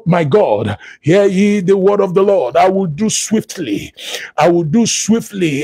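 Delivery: declaiming the Lord's words in a steady, rolling preacher's cadence; prophetic preaching. Acted. Preacher prophesying to online listeners, solemn and declaiming. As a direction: proclaim it as a prophet over the congregation.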